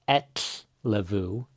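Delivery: slow etlevu, air out the sides; Icelandic ellefu. Shown as a demonstration. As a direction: model etlevu clearly for learners. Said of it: "The F is a lot more of a V sound".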